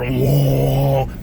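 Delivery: loud drawn-out whoosh; imitated propeller roar. Paratrooper at the open door with propellers right there, imitated roar. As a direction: mimic the roar rushing past.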